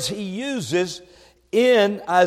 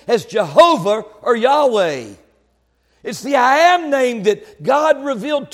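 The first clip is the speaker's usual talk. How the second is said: raised pulpit voice, higher pitched; emphatic preaching; 6 semitones higher, 4 dB louder than usual. Real, not acted. Preacher explaining the name of God, emphatic preaching. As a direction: drive the point home from the pulpit.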